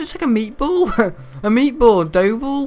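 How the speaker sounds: high giggling taunt; squealing with laughter; laughing mockery. Real, not acted. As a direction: crack up while mocking. Laughing at character's head.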